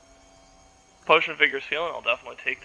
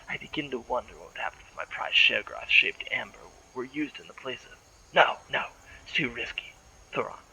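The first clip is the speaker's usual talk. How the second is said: lightly voiced unhinged madman; madman's voice. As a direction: read the note like a slightly mad hermit. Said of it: "So I ought to do this kind of in a madman's voice".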